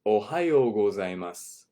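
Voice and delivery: Ohayo gozaimasu said clearly; model greeting. Shown as a demonstration. Teacher leads students in repeating. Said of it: "Try saying this with me".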